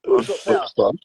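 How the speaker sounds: high, loud confused question; surprised. Real, not acted. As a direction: blurt it out in confusion.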